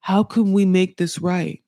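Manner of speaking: put-on understated quote of a pleading boyfriend; imitating pleading boyfriend. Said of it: "And then he's like".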